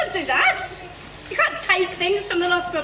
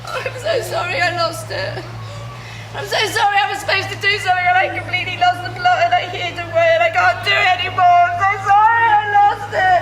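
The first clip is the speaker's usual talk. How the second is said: frantic apology; 4 dB louder, faster than usual. Acted. Frantic tearful confession.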